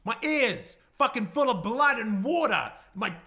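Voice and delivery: loud, high frantic list; loud panicked roll call of injuries. Acted. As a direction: rattle it off in rising panic.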